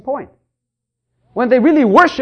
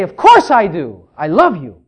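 louder, slow, firm "Of course I do"; sure and loving; 3 semitones lower, 5 dB louder than usual. Shown as a demonstration. Husband tells his wife firmly that he loves her. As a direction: answer her with full conviction. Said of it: "That's the way I say it".

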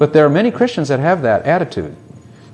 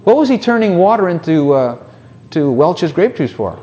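high-pitched baffled objection; mock indignation; 4 semitones higher than usual. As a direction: imitate a scandalized churchgoer. Mocking critics of Jesus at party.

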